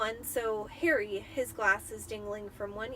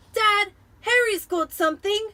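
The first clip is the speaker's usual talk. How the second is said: much higher, loud excited tattle; tattling Dudley; 11 semitones higher, 12 dB louder than usual. Acted. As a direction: rush to tell on Harry.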